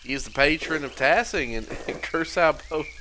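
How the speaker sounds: put-on character accent slipping into southern; lightly southern, breaking with a laugh; too-southern accent. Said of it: "It's, it's too southern".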